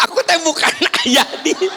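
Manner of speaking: put-on child yelling it's not dad; child shouting. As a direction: cry out like a lost child. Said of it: "Kabayang teu".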